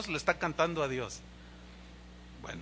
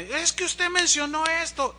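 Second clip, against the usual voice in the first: mock aggressive woman; 9 semitones higher than usual. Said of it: "estaba bien agresiva".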